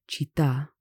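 "città" stressed on the last A; final stress. Shown as a demonstration. Teacher shows written accents, stress on the A. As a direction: lean on the final syllable of "città". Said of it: "which has the accent on the A".

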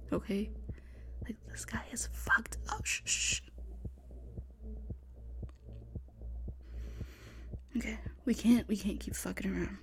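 hushed frightened whispering; tense whisper. Acted. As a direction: whisper urgently, hiding from killer.

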